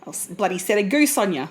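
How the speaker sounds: grumbling Aussie "bloody set a goose on ya"; mock Aussie threat. A podcaster playing a cranky Aussie chasing people off. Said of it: "you like the way you go".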